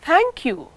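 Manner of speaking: "Thank you" with a falling tune. Shown as a demonstration. Teacher demonstrating a falling "Thank you". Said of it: "if we wish to express real gratitude".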